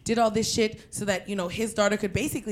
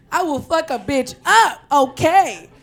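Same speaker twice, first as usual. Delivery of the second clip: laughing brag; 5 semitones higher, 8 dB louder, slower than usual. Retold or imitated. Bragging tough self, laughing.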